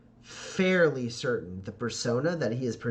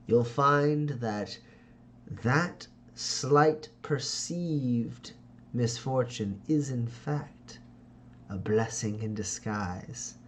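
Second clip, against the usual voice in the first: slow, lightly voiced silky deflection; Ferdinand's smooth voice; slower than usual. Ferdinand smooths over Jack's lost gig, slow and silky. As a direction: brush it off with a sheepish smile.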